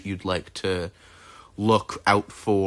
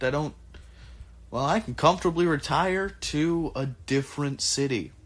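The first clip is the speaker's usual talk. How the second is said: put-on high, hesitant old craftsman rambling; Ajax's voice; 3 semitones higher, 3 dB quieter than usual. Ajax answering the party, high and hesitant. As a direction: go up high and fumble for words, then settle. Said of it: "He, he turns to you and goes".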